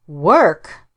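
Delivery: a loud, hooting, scoffing echo of the word. Acted. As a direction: hoot the word back in mock disbelief. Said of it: "He said it with a sort of a hoot".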